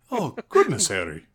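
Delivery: high put-on wizard voice, falling at the end; Dumbledore impression. Copying the co-host's Dumbledore, high and loud. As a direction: mimic the old wizard's exclamation. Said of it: "That's what Dumbledore sounds like".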